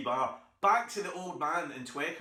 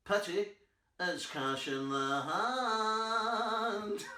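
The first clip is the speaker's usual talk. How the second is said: put-on old man's reply; 6 semitones higher, much slower than usual. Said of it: "And he went".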